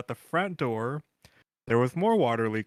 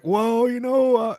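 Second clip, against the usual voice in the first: put-on started Filipino accent; 9 semitones higher, 5 dB louder, slower than usual. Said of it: "I was gonna do a Filipino accent".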